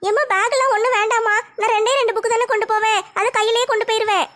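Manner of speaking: lightly voiced teenage daughter; a hint of a shy college girl talking to her mother; young daughter. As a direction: modest daughter, lightly played. Daughter declines bag.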